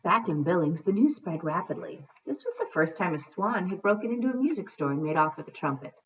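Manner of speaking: storybook narration; story reading. A narrator's reading. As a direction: read to children at an even pace. Reads a storybook aloud.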